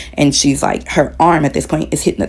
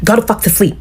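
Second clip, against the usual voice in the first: angry yelling; 4 semitones higher, faster than usual. Retold or imitated. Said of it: "she's yelling at me".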